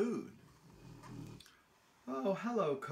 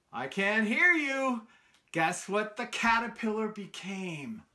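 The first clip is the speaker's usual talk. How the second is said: calling out; 3 semitones higher, 5 dB louder than usual. Real, not acted. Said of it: "coaxing children to answer".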